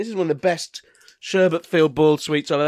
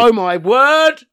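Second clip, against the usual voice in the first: excited; 6 semitones higher, 7 dB louder, much slower than usual. Real, not acted. Free sticker in candy box.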